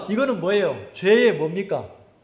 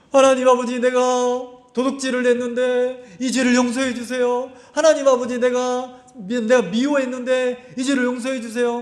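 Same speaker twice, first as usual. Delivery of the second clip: mock prayer; 2 semitones higher than usual. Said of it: "성령이 뭐라고 가르치겠습니까".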